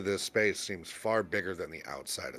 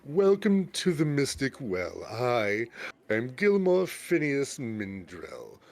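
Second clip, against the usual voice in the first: lightly voiced showy merchant greeting; a hint of a grand salesman introducing himself; gaudy shopkeeper; 3 semitones higher than usual. Shopkeeper Gilmore greets new customers, lightly pompous. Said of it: "he comes around and he says".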